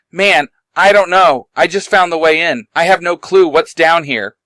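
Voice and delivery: mild shout back. Acted. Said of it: "Simon shouts back".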